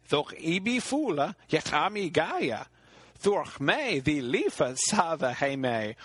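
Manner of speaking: a bargaining hag pressing her price; loathly lady. Acted.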